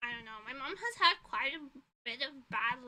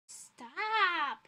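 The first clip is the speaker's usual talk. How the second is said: sudden stop; 5 semitones higher, 7 dB louder than usual. Real, not acted. Snaps at her phone's notification.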